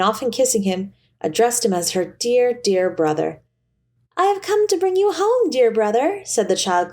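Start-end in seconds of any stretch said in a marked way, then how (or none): 4.2-6.2 put-on high, eager child's voice; little girl. A narrator's reading. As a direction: play the little sister bursting with joy. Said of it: "clapping her tiny hands and bending down to laugh".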